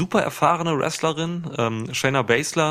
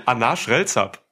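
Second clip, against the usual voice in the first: backwards speech. Shown as a demonstration. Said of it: "Und jetzt Shayna Baszler, bitte".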